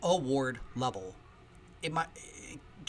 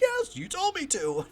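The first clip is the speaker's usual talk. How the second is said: high, loud, drawn-out excited reply; Wild Bill impression; 5 dB louder, slower than usual. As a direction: answer eagerly in an eccentric's high voice. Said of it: "I'm doing a Wild Bill impression".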